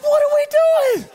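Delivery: very high, loud squeal of alarm; hammed-up freak-out at high pitch; mock panic. Retold panic after bluffing.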